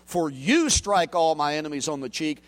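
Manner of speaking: you pressed in for you strike; stress on you. Shown as a demonstration. Preacher to congregation, emphasizing you. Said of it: "that's where the emphasis is".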